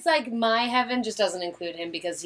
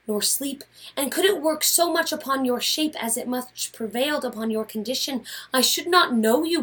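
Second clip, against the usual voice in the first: earnest wife pressing her husband, a bit raised; Portia pleading with Brutus; 3 semitones higher than usual. Acted. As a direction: plead with him, worried and insistent. Reads Portia in a scene.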